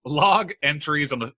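stumbling with a retainer in; talking round a retainer; wearing a retainer. Real, not acted. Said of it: "I have my retainers in".

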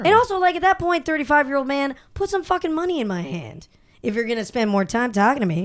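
sassy drag queen. Retold or imitated. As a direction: hand over the money, honey. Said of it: "Now you're sounding like a drag queen".

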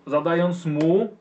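slow, drawn-out blow-by-blow; game master building up the hit; dramatic combat narration. A narrator's reading. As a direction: stretch the attack out for suspense. Game master narrates a sword attack.

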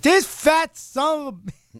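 high, slow ranting wrestler; mock-furious wrestler voice; Scott Steiner. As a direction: spit out an exaggerated promo rant. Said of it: "His voice and Scott Steiner's voice".

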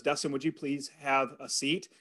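a soft, sheepish request, spoken with a grin. Retold or imitated. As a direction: ask him to sit gently, half apologetic. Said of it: "and sheepishly, she grins at me".

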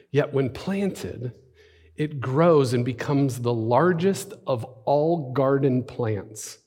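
measured, slow parable reading; slow scripture reading. Acted. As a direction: let each phrase land slowly. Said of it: "I'll read 'em slowly".

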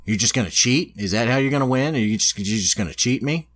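lightly acted accusation, rising at the ends; a touch of offended disbelief; mildly indignant retelling. Cheated hero confronting his opponent, mildly indignant.

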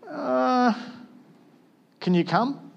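a high, hesitant plea for Jesus to come; unsure asker hoping not to offend; timid asking. Retold or imitated. Pastor imitating himself hesitantly begging Jesus to come, high and unsure. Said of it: "but I'll be like".

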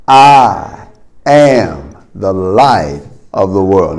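slow, deliberate declaration; second take, firmer. Shown as a demonstration. Preacher leading the congregation, slow and firmer. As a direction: say it like you're starting to mean it. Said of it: "We're gonna do it the second time".

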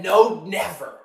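firm "No, never"; emphatic denial. Retold or imitated. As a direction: imitate a pastor's certain "No, never". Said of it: "he emphatically said".

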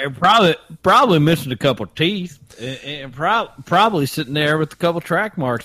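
playing Frank, a good ol' boy from Augusta; Augusta Southern accent. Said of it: "your Southern accent".

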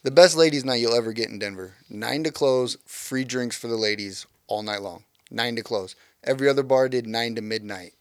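club promoter pitch; sleazy salesman. Pretend. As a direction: sell it like a bar promoter. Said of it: "in my best salesman voice".

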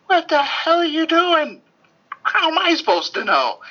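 protesting she couldn't have known; high, exasperated outburst. Retold or imitated. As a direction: throw up your hands in a high squeal. Retelling her exasperated outburst.

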